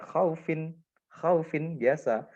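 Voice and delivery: khaufin read short and continuing; normal reading. Shown as a demonstration. Teacher contrasting the unstopped form, plain. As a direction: say khaufin without stopping. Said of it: "dibaca biasa ya".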